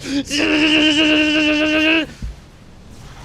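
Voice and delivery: long, loud, high buzzing beam noise; drawn-out high zapping drone; imitated laser beam. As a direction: sustain a high mouth-made laser sound. Imitates Void Ray beam noise.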